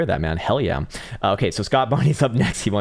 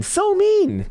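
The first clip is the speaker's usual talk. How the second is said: mock hurt; 4 dB louder than usual. Repeats it, much higher.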